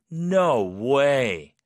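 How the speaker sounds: loud, drawn-out "no way" of disbelief; disbelieving. Shown as a demonstration. Teacher showing the tone for hard-to-believe news, disbelieving. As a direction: stretch it out as if unable to believe it. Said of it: "약간 이런 톤으로".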